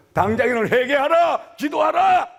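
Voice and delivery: high, loud preacher's command; fiery pulpit shout. Acted. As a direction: bellow the call to repent. Preacher voicing harsh commands.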